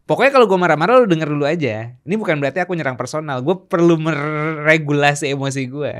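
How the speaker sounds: retold insistent ask; firm request. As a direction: lay down the rule firmly. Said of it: "aku harus bilang gini".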